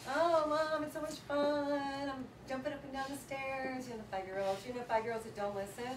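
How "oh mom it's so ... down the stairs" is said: put-on high, sing-song child voice; playful kid. Son refusing bed to his mom, sing-song. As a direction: bounce through it like an excited five-year-old.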